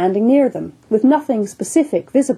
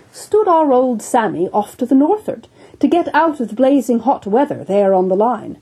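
earnest surgeon; 4 semitones higher than usual. Acted. Surgeon tells of the wound.

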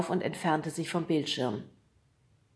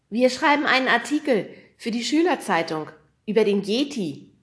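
lying; 5 semitones higher, 7 dB louder than usual. A narrator's reading. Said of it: "log Nemo".

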